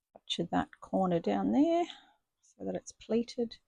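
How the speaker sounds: straining while holding breath; words squeezed out with breath held. Real, not acted. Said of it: "I hold my breath when I'm pushing".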